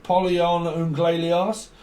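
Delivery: slow, mangled mock French; botched French accent. Shown as a demonstration. Showing someone who messes up French, botched French accent. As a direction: badly fake French, stretching the name. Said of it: "fucks up the French accent".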